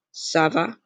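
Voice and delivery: "Ça va" opening on an S sound. Shown as a demonstration. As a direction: say "Ça" with S in place of K. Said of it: "this accent makes it a S sound".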